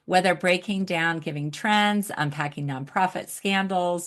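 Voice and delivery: measured host reading a guest bio; introduction read. Real, not acted. Host introducing nonprofit expert to audience, introduction read. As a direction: present the guest's credentials to listeners. Reads guest's biography aloud.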